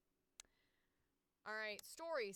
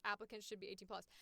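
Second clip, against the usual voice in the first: ordinary delivery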